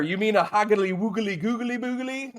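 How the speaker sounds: high, exaggerated Australian gibberish; mock Australian accent. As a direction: babble it like a cartoon Australian. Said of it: "these Australians, man, they got words".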